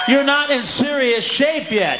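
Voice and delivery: slow, loud punch of the punchline; slow shout. Real, not acted. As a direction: hammer the punchline home.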